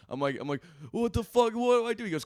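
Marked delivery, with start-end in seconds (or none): 0.9-2.0 high, frantic retold panic; panicking on the phone about the mess; panicked. High panicked cry to a friend.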